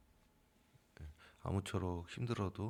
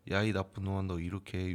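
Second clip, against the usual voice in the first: mock scolding; 5 dB louder than usual. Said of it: "욕했다가는".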